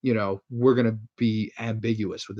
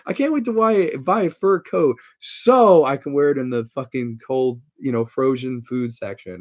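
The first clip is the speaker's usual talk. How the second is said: mock wife voice; 4 dB louder than usual. Retelling the wife's fur coat line, a hint of mock voice. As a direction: lightly redo the silly wife line.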